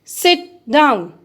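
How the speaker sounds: firm command. Shown as a demonstration. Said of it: "It expresses command".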